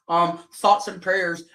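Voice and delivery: slow, hollow "thoughts and prayers"; dismissive, slowed-down fake condolence; mock sympathy. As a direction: brush them off with a flat, slow "thoughts and prayers". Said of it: "the same bullshit that you give to us".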